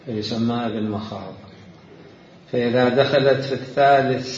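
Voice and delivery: slow, deliberate classical Arabic reading; formal reading aloud. Real, not acted. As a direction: read each definition out with weight. Reads a book definition. (قراءة متأنية لنص بالفصحى)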